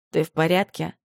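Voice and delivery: deep strong voice, touch of worry; deep, concerned. A narrator's reading. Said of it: "глубокий, сильный голос с нотками беспокойства".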